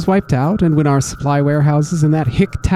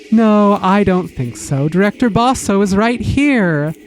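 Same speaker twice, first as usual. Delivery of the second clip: smug impostor; 2 semitones higher than usual. Acted. Impostor in Basso's voice.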